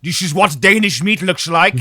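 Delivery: high and loud through laughter; cracking up while telling it; laughing. Acted. Comic escalation, laughing loud.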